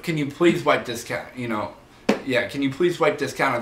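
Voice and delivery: courteous request, please stressed; gentle polite version; polite ask. Shown as a demonstration. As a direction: ask nicely, lean on please. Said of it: "instead of".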